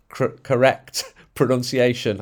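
"correct" broken off, then slowly restarted; stumbling pronunciation. Real, not acted. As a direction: trip over "correct", recover with a laugh. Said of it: "can't even say the word correct".

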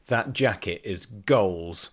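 drawn-out, lightly voiced youngster's admiration; imitating young slang-user. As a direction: stretch it out like slang-loving youth. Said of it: "One went to the other one".

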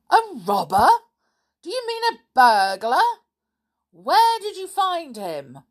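loud, rising disbelief; amazed. A narrator's reading. Stepfather hearing of a robber in the house, amazed. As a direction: fire off astonished questions.

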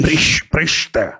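very slow, stretched syllables; slow motion. Shown as a demonstration. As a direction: drag out each syllable. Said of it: "Ele fala devagar". (fala bem arrastado)

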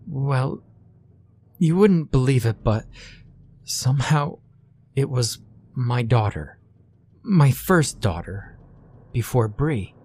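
lightly voiced frightened mother; worried mother voice.

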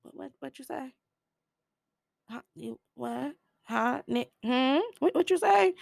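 high, incredulous what-did-you-say; shocked disbelief. Real, not acted. Teller reacting to the slur, high shocked disbelief. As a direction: demand a repeat in disbelief.

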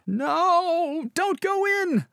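high, pleading cry of no; mock horror panic. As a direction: shout like a scared horror movie viewer. Begging pilot like horror film.

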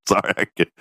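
helpless real laughter breaking into the words; can't stop laughing. Real, not acted. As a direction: apologize while trying to recover from a laughing fit. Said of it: "I couldn't stop laughing".

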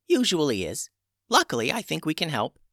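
put-on high, calm old witch; a witch healer in charge. A narrator's reading. Old witch Tubes speaks.

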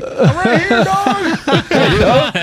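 high, playful answer; joking voice from the box. Acted. Comedian voicing himself in the skit box, high and playful. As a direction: pop up with a cheeky high reply. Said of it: "and I'm like".

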